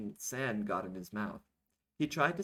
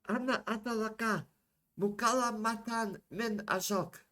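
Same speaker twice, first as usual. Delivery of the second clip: loud soldier; 13 semitones higher, 4 dB louder than usual. Acted. Soldier reports a call to the president, loud. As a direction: announce it formally, pitched well up. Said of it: "a soldier said loudly".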